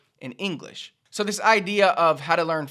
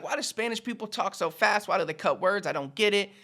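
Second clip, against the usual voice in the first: whiny learner; 5 semitones higher than usual. Retold or imitated. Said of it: "a lot of people will be like".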